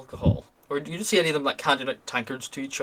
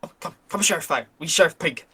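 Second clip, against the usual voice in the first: higher, broken-English goblin welcoming guests; pleased goblin; 4 semitones higher than usual. Acted. Camp goblin invites the merchant to share the fire, higher goblin voice. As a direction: play a greedy goblin happy to share the fire, pitched higher. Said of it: "he looks around and he goes".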